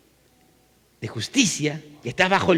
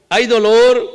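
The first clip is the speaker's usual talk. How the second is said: emphatic preaching; 7 dB louder, slower than usual. Real, not acted. Preacher presses the congregation.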